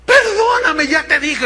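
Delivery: high, loud, pleading cry for forgiveness; desperate plea. Retold or imitated. Husband begging his wife to forgive him, high and pleading. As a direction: beg like a man caught and desperate. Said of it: "El hombre lloraba desesperado".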